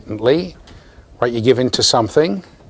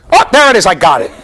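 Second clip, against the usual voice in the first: excited catch; 6 semitones higher, 5 dB louder, faster than usual. Acted. Teacher spots desired behavior.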